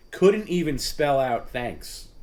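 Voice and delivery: slow, indignant disbelief. Real, not acted. Ranting in disbelief at Perry.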